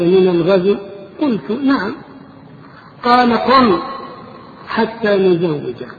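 impassioned sermon storytelling. A narrator's reading. Preacher recounts the fighter's dream to listeners, loud animated storytelling. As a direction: tell the dream with mounting force, pausing between phrases.

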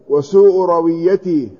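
رويته slowly as ra-wiy-ya-tih; careful رويته, a after r, i after w; vowelled reading. Shown as a demonstration. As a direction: sound out رويته with doubled y. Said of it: "قال بفتح الراء وكسر الواو".

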